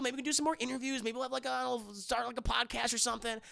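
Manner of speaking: a hint of a pushy sleazy hustler; sleazy Liev Schreiber. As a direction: sell the deal like a slimy opportunist. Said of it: "He's like".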